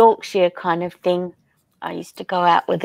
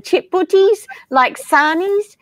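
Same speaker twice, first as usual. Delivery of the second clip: light questioning quote; 11 semitones higher, 3 dB louder than usual. Retold or imitated. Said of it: "Cupcake saying".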